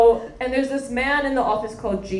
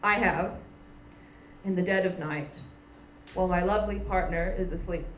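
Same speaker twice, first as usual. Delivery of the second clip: a hint of hushed confession; lower, softer, like a secret; softly owning up, mildly mock-solemn; confessional; 4 semitones lower, 8 dB quieter than usual. Real, not acted. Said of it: "be vulnerable and admit something".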